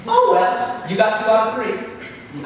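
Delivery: high, laughing, taunting devil; mocking Satan. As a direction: taunt him with a cackle. Satan quips.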